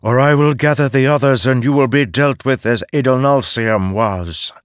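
fast, threatening dragon voice; a dragon's quick menacing threat; draconic voice. Acted. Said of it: "Kor said with her draconic voice".

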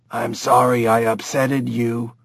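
a lightly voiced childlike chimp; simple, earnest chimp voice; talking chimp. Dave apologizes to Lynn, lightly voiced chimp.

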